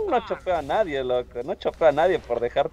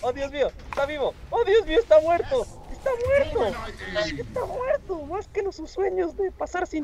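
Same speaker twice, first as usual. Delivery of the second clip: high, hammed-up tragic lament; melodramatic wailing; 13 semitones higher than usual. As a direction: overact grief like a soap opera. Mock tragic wailing over dead teammate.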